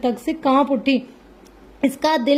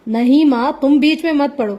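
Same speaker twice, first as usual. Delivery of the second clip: louder, sharp angry order; angry retort; 3 semitones higher, 4 dB louder than usual. Acted. Son holding a gun tells his mother to stay out, angry. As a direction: shut mother out, angry and loud.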